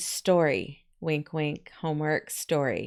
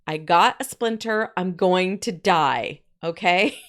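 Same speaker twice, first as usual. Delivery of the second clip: mock dramatic; 4 dB louder, slower than usual. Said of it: "This boy was being very dramatic".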